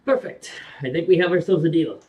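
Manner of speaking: booming dragon speaking high and loud; proud dragon closing a deal. Acted. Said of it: "my Red Dragon impression".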